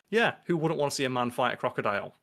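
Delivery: quoting it casually, as if obvious; understated blasé delivery; matter-of-fact, blasé. Retold or imitated. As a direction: toss it off with no fuss. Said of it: "says it so matter of fact and blasé".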